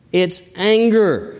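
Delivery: usual speaking voice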